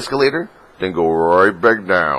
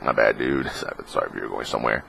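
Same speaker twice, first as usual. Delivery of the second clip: lower, softer, quick laughing apology; sheepish apology; 8 semitones lower, 8 dB quieter than usual. Retold or imitated. Fan apologizing to the swarmed celebrity, quiet and sheepish. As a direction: mumble sorry with a laugh.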